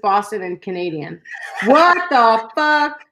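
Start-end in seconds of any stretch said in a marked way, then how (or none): 1.6-3.0 stunned, drawn-out disbelief. Real, not acted. Podcaster hearing of a friend's odd accent mix, stunned. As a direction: draw every word out slowly, floored.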